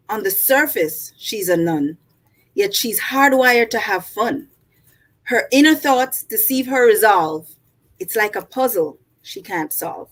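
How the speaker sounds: measured poetry reading voice; poem reading. Acted. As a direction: read it like a poem recital. Reads her poem aloud.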